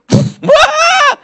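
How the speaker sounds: very high, loud cry; hammed-up startled shriek; shocked scream. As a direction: yell as the speaker flies up empty. Finds the loudspeaker boxes empty.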